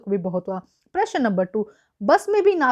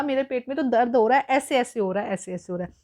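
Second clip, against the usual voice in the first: whimpering in pain. Retold or imitated. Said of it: "अब ऐसे कह रहा है".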